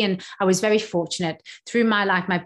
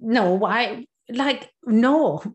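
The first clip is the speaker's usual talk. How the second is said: flippant; 3 semitones higher, much slower than usual. Retold or imitated. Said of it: "I flippantly said".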